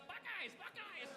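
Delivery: high, drawn-out bird cry; kenku voice. Acted. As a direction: crow it slowly like a gleeful parrot. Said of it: "you see the bird immediately takes".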